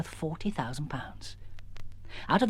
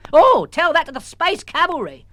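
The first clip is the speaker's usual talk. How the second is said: higher, louder tart retort; sharp retort; 12 semitones higher, 10 dB louder than usual. Acted. Missus Jones retorting to the raven, sharply. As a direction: fling it back at the bird.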